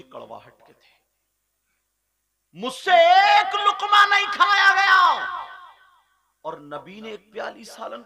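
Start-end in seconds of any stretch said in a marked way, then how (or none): 2.6-5.4 raised, anguished cry of regret. Acted. Hafsa crying out that she could not eat a bite. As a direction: cry out her remorse, loud and high.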